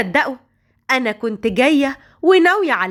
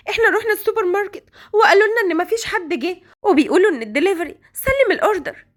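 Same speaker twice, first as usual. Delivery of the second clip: put-on a higher worried young woman's voice; 5 semitones higher, faster than usual. Hagar to Omran while searching for the girls, worried and higher. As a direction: fret aloud to Omran.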